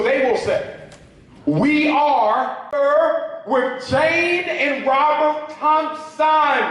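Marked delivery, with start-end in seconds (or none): 1.4-6.6 slow, every word cut apart; imitating prim, careful white speech; mock over-enunciation. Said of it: "their language is all about enunciating the words".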